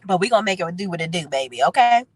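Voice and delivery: stuffy nasal cold voice. Real, not acted. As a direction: talk through a blocked nose. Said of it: "apologize for my nasally voice".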